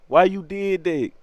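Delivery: slow, whiny hurt question; hurt plea. Retold or imitated. Punched boy asking Baby Josh why, slow hurt whine. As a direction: draw it out wounded and pleading.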